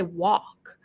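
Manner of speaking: "walk" with a wide-open mouth; wide American vowel. Shown as a demonstration. Showing listeners the American way, "walk" with a wide open vowel. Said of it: "So look how wide my mouth is".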